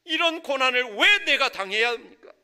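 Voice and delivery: loud, high-pitched demand for answers; preacher acting out an aggrieved, insistent "why me?"; protesting to God. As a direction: cry out the complaint like someone arguing with God. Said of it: "이렇게 따지는 경우도 있어요".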